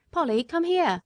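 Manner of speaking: high, urgent call for Polly; shouting. Acted. Jerry shouting to his wife to come, high call. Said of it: "he shouted".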